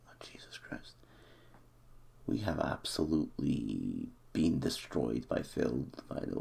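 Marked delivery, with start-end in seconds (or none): 0.1-0.9 breathy hushed curse; whispered dismay. Real, not acted. Fan watching the table tighten, whispering dismay. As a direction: let it slip under the breath.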